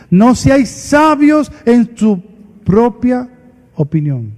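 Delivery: slow, weighty reading of the verse; scripture reading. Acted. Preacher reading Romans to his congregation, slow and solemn. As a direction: lay each phrase down slowly like holy writ.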